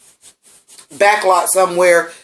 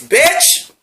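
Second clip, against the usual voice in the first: high excited shriek of delight; 9 semitones higher than usual. Real, not acted. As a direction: cry it out with pure joy. Overjoyed exclamation at the tribute.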